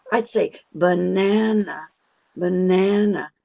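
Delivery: banana with a flat a as in cat; her own pronunciation. Shown as a demonstration. Teacher showing her own accent's vowel, lengthened. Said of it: "if it was me saying it".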